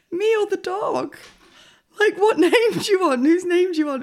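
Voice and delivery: high, loud, panicky questions; stressed and flustered. Retold or imitated. Flustered owner asking the receptionist whose name she wants, panicking. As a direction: flail like you're cornered at the desk. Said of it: "really stressed".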